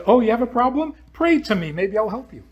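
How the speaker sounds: sarcastic parody of a God who needs to be asked; mock God voice. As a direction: dangle the help like a bored deity. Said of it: "Then he says".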